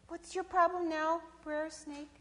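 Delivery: high-pitched possum voice, a little reluctant; Sister Possum. Acted. Possum to snake calling again, high reluctant question. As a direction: ask in a high animal voice.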